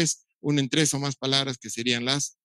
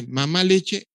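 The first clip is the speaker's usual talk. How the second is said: put-on child's two-word request; 4 semitones higher, much slower than usual. Shown as a demonstration. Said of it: "el niño dice".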